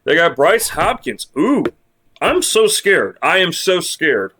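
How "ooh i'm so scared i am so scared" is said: higher, drawn-out sarcastic 'so scared'; sarcastic mock fear. Mocking a rival team's star player with sarcastic fake fear. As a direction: pretend to tremble, dripping with sarcasm.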